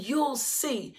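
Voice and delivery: softly voiced reply from the Lord; God's quiet assurance. The Lord answers the praying husband, quietly assuring. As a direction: answer quietly, as God asking for trust. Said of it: "And the Lord said".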